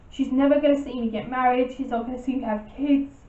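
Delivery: real tears pushing through, words rushing; fighting not to cry as it speeds up; holding back tears. Real, not acted. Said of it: "Sorry, I'm trying not to cry".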